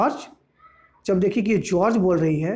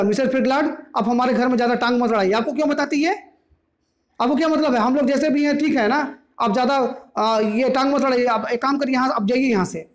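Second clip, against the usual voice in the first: angry; 4 semitones higher than usual. Acted. George tells neighbour to butt out.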